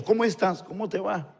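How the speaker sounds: imitating a sly, softly put greeting; con astucia. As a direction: sound them out softly, feigning casual interest. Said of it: "llegan así como con astucia". (saludo astuto, en voz baja)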